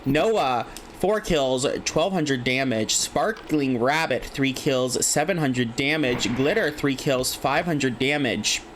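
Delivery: even, measured announcer read of the leaderboard; steady caster listing names and numbers; esports caster stat read. Acted. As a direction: read off the kill leaders like a broadcast. Casting kill leaders.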